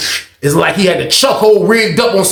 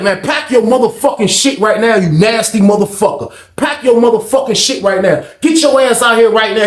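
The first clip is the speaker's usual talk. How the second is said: angry guard; 3 semitones higher than usual. Retold or imitated. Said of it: "They like".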